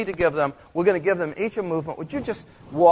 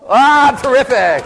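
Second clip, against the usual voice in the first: delighted; 8 semitones higher, 11 dB louder, slower than usual. Real, not acted. Delighted reaction after scene.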